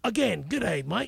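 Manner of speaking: broad Australian greeting; Australian accent. Shown as a demonstration. Reusing the line on request, Australian accent. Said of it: "Australian accent".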